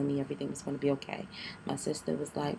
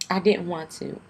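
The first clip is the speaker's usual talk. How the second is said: louder, pleading insistence on didn't; emphatic repeat; 3 semitones higher, 8 dB louder than usual. Real, not acted. Telling viewers she refused, loud emphatic plea. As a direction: press hard on didn't. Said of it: "y'all, I did not want to".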